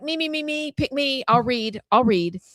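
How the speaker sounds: high, pleading pick-me voice; eager schoolkid. Retold or imitated. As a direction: beg to be picked like a keen student. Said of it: "the three of us were probably like".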